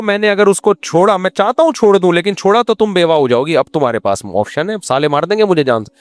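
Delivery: husband putting on a trapped act for his wife; mock desperate husband. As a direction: act torn and scared, playfully. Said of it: "اس کو یہ شو کرو".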